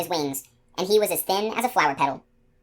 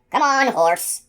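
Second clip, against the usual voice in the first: louder, much higher wheedling; eager coaxing; 8 semitones higher, 4 dB louder, much slower than usual. Acted. Gardener luring the unicorn, loud high coaxing. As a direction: promise her a treat.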